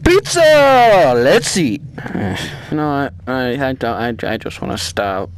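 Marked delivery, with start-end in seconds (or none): 0.0-1.1 loud slow cartoonish Chico voice; lightly voiced animatronic announcing pizza; playing Chico. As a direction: ham it up as the pizza chicken. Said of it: "I'm Chico".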